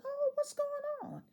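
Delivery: startled by the rush, ask what's up; surprised. Retold or imitated.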